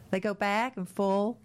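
Scottish-tinged vowels, drawn out slowly; Scottish accent. Real, not acted. Reading out a listener's clock-change message, hint of Scottish accent. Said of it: "why are you doing a Scottish accent".

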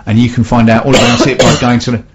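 coughing mid-sentence; coughing on dust. Real, not acted. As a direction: cough breaks into the words. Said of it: "Sorry, I think I inhaled some dust".

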